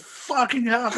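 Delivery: high, explosive mock fury; really angry. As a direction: burst out in exaggerated rage. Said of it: "when he gets really angry".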